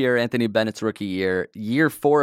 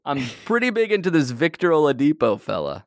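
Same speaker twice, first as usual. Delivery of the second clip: put-on teen caller; 5 semitones higher than usual. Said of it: "fifteen-year-old here".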